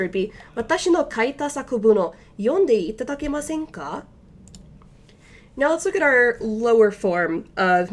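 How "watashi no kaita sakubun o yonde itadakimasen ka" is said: the same Japanese sentence at natural speed; now say it at a natural pace; faster reading. Shown as a demonstration. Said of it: "just to read that a little bit faster".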